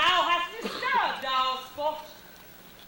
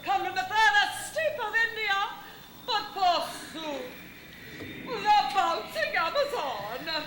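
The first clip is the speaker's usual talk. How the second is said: hammy stage actor; 4 semitones higher than usual. Acted. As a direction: overblown theatrical Titania. Hammy Titania speech.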